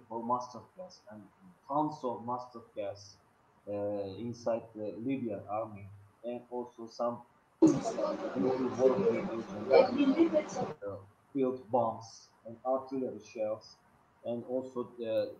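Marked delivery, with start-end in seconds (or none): none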